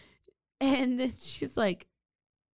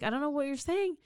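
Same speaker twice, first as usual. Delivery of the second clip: slightly higher, flustered protest; mock freaking out; 4 semitones higher than usual. Alan answering the woman's confession, mildly freaking out. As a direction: protest in acted confusion. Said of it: "He's, like, freaking out".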